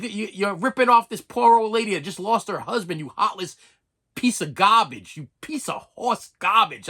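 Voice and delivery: reenacted outrage, slowing down on the insults; angry rant. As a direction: lay into a cheat, hitting the insults. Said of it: "no idea how angry I used to get".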